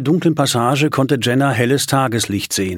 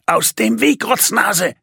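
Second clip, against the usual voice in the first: high, furious shout of Rotznase; scornful rider's yell; angry yell; 10 semitones higher, slower than usual. Acted. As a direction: yell at the boy to get out of the way. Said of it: "schrie Simon".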